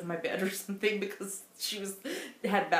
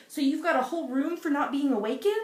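quoting the Doctor; 8 semitones higher, 7 dB louder than usual. Retold or imitated. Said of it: "he was like".

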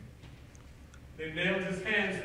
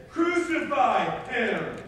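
loud, very slow, raised shout; mob crying out; 5 semitones higher, 8 dB louder, much slower than usual. Acted. Mob insisting to Pilate on execution, crying out. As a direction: hammer out each word as a shouting mob. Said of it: "the mob cried again".

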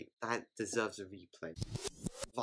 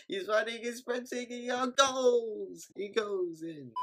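much higher, rising with the run; excited call; 10 semitones higher, slower than usual. Real, not acted. Fan calling a rugby player's sprint, higher and excited. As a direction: ride the sprint with your voice.

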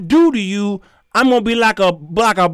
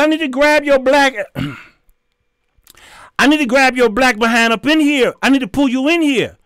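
retold threat; 3 semitones higher than usual. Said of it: "I said".

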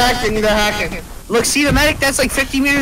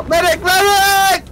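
calling for a medic, hammed up; mock cry for a medic; mock wounded soldier yelling; 5 semitones higher, slower than usual. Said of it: "I just joined in with him".

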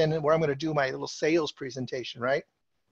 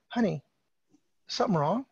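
gentle concern; 4 dB quieter than usual. Retold or imitated. Husband gently asks upset wife.

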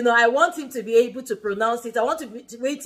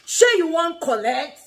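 higher challenging question with attitude; 4 semitones higher, 3 dB louder than usual. Shown as a demonstration. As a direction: throw it out like a parent's warning, full of attitude. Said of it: "So you say it with an attitude".

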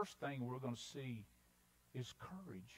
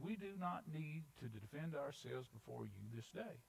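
softer, composed refusal; very calm; 4 dB quieter than usual. Acted. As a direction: quietly stand your ground. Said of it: "they very calmly said".

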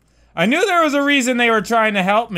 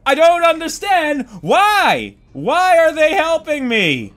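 exasperated shout; 6 semitones higher than usual. Real, not acted. Gamer baffled that enemies help him. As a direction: shout your confusion.

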